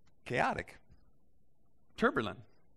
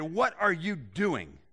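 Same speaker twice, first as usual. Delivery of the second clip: mild demanding; 3 semitones higher, 3 dB louder than usual. Retold or imitated. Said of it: "they demanded".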